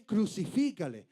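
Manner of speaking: crucifícale thrown out loud with a falling end; crowd's cry. Retold or imitated. Preacher voicing the mob's demand, loudly. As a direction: call out crucifícale like the mob. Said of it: "y le estaban gritando".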